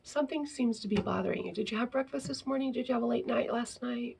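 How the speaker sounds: soft, quick, caring questions; gentle concern. Shown as a demonstration. Teacher gently checking on a child, soft and caring. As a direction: ease in gently with a worried student. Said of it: "rather than questioning".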